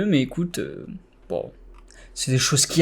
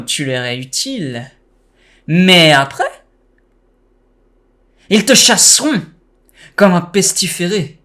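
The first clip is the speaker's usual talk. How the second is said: cartoonish joking villain; Joker voice. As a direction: tease him like a playful Joker. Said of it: "j'ai fait une voix de Joker".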